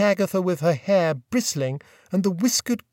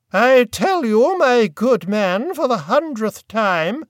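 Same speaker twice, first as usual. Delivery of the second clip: slow, higher, louder icy snub; frozen grande dame; 5 semitones higher, 5 dB louder, slower than usual. A narrator's reading. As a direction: freeze a waiter with disdain. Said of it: "the voice she usually reserves for snubbing waiters".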